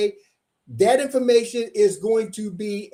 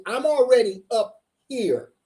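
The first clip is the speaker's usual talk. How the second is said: excited, spaced out for emphasis; fired up, landing each word separately; hyped up; 3 semitones higher than usual. Real, not acted. Livestream host repeating where he's at, hyped up. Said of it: "this guy is hyped up".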